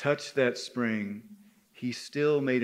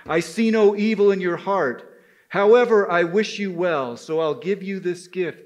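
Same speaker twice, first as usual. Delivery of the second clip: kind wild man; 4 semitones higher, 5 dB louder than usual. Acted. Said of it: "the wild man said".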